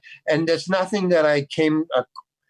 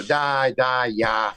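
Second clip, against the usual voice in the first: stand-up comedian Russian accent; 2 semitones lower, much slower than usual. Shown as a demonstration. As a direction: toss off a joke Russian accent. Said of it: "stand-up comedian Russian joke".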